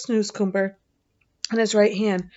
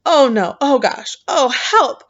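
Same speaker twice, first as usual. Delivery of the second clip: mock disgust; 4 semitones higher, 7 dB louder, slower than usual. A narrator's reading. Sophie spits out the food.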